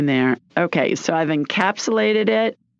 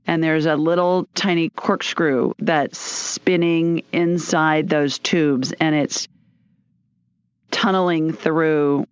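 guided visualization; slower than usual. Acted.

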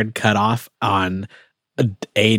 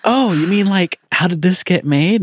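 mock excited listener; 9 semitones higher than usual. Listener confusing it with another podcast, mock eager. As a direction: gush like a confused fan. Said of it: "The worst response ... is always".

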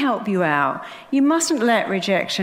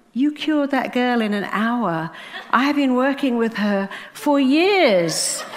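impressed psychiatrist; 4 semitones higher, slower than usual. Retold or imitated. Psychiatrist's amazed reply voiced.

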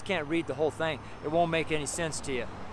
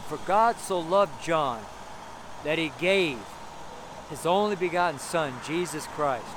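slow personal reading. Shown as a demonstration. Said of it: "Put your name".

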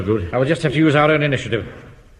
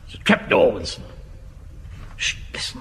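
whisper; 3 semitones lower, 5 dB quieter than usual. Acted. Hiding beneath a trap door.

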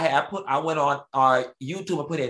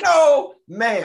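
very high, loud hammed-up refusal; exaggerated scandalized protest; mock-scandalized refusal; 12 semitones higher, 8 dB louder than usual. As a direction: belt it out in comic horror. Repeats the retold refusal, playing up.

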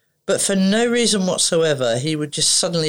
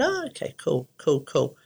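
soft, retold noncommittal reaction; doubtful acceptance; 5 dB quieter than usual. Reacting to the mum's McDonald's reward, quietly doubtful.

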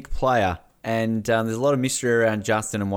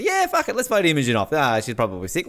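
casual Nicole; 3 semitones higher than usual. Retold or imitated. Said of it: "Nicole just basically goes".

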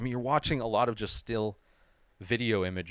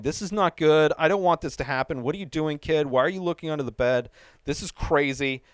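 yelling at the screen; 4 semitones higher, 3 dB louder than usual. Retold or imitated. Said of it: "I'm yelling at the screen".

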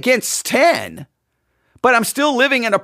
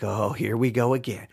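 cynical aside; 11 semitones lower, 9 dB quieter than usual. Retold or imitated. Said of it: "start shaking your head like".

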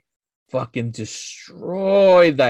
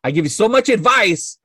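retold exasperated venting; fed up; 2 semitones higher than usual. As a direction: replay telling her you've had enough. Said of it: "I got so fucking tired".

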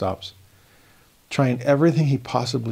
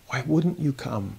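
sorrowful plea; 5 dB quieter than usual. Acted. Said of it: "haunting phrase of sorrow".

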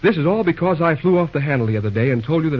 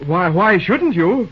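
taken aback; 5 semitones higher, 3 dB louder, slower than usual. Acted. Thrown by her retort, stammers.

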